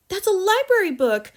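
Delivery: put-on high, loud girl's cry; loud high child's protest. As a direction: cry out in alarm at the torn book. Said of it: "Matilda cried".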